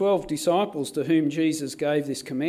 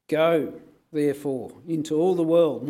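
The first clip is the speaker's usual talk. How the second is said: "Go" hit louder and set apart; emphasis on go; 4 dB louder than usual. Shown as a demonstration. Preacher showing the usual reading, stressing "Go". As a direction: lean hard on "Go, therefore". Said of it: "we've tended to put the emphasis on the going".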